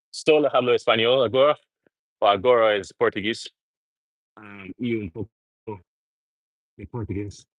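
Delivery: winded from the workout; breathless between chin-ups; out of breath. Real, not acted. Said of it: "Why am I out of breath?".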